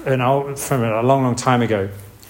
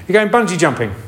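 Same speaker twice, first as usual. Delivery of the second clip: much higher, airy brush-off with a laugh; mock breezy; 7 semitones higher than usual. Shown as a demonstration. Preacher imitates glib reassurance to a jumper, breezy. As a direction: toss it off lightly, half-laughing.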